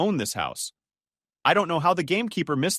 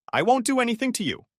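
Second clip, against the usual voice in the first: high-pitched call through a door; raised, high reassurance to those inside; 9 semitones higher, faster than usual. A narrator's reading. Michael to frightened strangers behind the door, calling out. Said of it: "he shouted".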